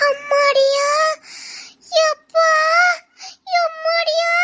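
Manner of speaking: high exclamations of wonder; gasping at the view; awestruck. Acted. Awestruck at the scenery.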